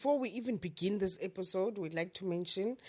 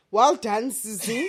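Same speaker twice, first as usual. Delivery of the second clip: cheering call; 2 semitones higher, 6 dB louder, slower than usual. Retold or imitated. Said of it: "and I'm like".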